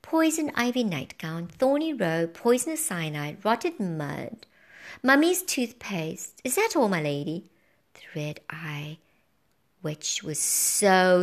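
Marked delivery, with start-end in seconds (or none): 0.0-7.4 calm. Acted. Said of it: "So I calmly read back".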